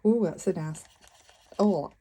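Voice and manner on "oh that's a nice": northern Lancashire accent slipping out; local Lancashire accent. Real, not acted. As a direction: let the Lancashire vowels slip out. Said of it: "accent come out then".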